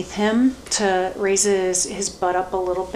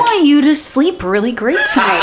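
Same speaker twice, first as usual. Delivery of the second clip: laughing; 6 semitones higher, 6 dB louder than usual. Real, not acted. Laughing tease.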